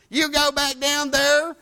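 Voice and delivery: lightly voiced determined wife; imitating wife. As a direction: play the wife putting her foot down. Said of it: "she don't talk like that".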